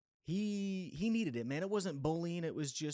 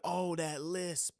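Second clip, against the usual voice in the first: mocking jab; 6 semitones higher, much slower than usual. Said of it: "He's like".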